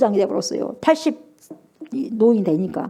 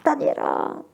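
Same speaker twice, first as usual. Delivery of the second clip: trembling sad voice; 5 semitones higher, 5 dB quieter than usual. Retold or imitated. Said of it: "슬픈 목소리로 막 떨리면서".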